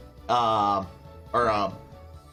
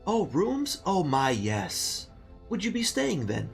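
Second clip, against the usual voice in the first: put-on very old man; 5 semitones higher than usual. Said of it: "He's a very old man".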